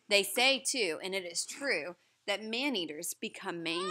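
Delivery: put-on reading a story aloud to children; lively read-aloud to a class; story narration. A narrator's reading. Teacher reading the story aloud to the class.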